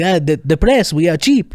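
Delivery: put-on high French-accented excuse; Jock. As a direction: imitate a sheepish French reporter's excuse. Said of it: "and he's like".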